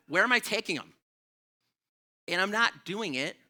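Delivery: indignant. Real, not acted. Refusing the cat errand.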